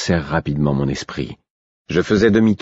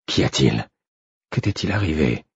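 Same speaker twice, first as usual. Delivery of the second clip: soft, gentle questioning; quiet, careful concern; reassuring voice; 3 dB quieter than usual. A narrator's reading. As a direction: coax the story out calmly. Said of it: "d'une voix que je voulais rassurante".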